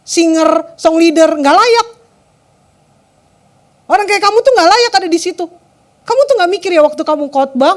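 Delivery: hammed-up accusing tirade with punched words; harsh, acted berating. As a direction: imitate an abusive partner hurling insults. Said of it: "Kasar banget teman-teman".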